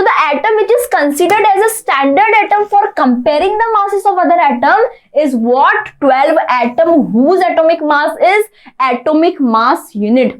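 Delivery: slow, deliberate classroom dictation. Shown as a demonstration. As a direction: read the definition out very slowly. Teacher dictating a definition line.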